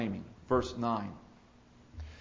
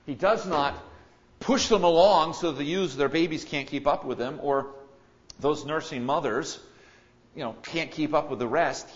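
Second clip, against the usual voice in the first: louder emphasis; 6 dB louder than usual. Real, not acted. Preacher emphasizes.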